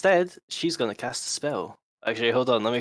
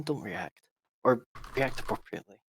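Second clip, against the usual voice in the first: quiet ventriloquism; 6 dB quieter than usual. Acted. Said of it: "quietly ventriloquism to people".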